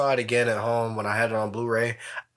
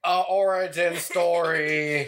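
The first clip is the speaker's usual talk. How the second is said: slow, teasing echo of "a origin story"; light mock of a friend's wording; mocking repeat; 3 semitones higher, slower than usual. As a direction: drag out "A origin story" to poke fun at the slip. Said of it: "a original".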